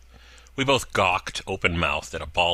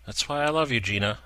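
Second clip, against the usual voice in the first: sarcastic teasing; 6 semitones higher than usual. Acted.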